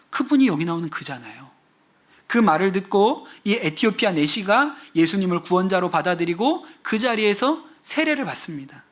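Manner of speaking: usual speaking voice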